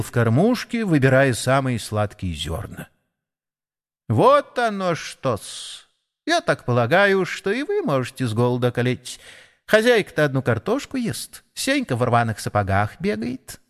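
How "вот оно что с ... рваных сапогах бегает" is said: sparrow voice. Acted. Sparrow lectures the animals.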